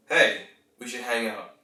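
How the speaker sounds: "Hey, we should hang out" as a statement, falling at the end. Shown as a demonstration. Coach showing how to invite a friend, stated. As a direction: let "hang out" drop as a settled statement. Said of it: "one is a statement".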